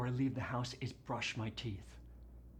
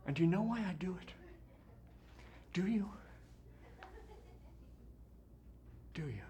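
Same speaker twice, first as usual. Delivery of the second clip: fast, higher pressing question; urgent challenge; 7 semitones higher, much faster than usual. Acted. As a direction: press the audience hard. Challenging the audience.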